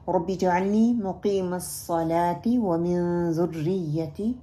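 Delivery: رب اجعلنی said with thin ر and hamza for ع, slow; common mistaken reading. Shown as a demonstration. Teacher demonstrating the wrong way students read it. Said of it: "اس میں ہم کیا کیا غلطیاں کرتے ہیں".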